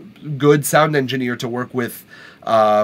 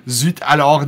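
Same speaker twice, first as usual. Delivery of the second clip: mock France French. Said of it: "That's France French".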